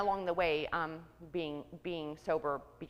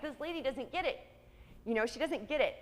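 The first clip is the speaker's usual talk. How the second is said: indignant quote; 6 semitones higher than usual. Retold or imitated. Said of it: "I was like".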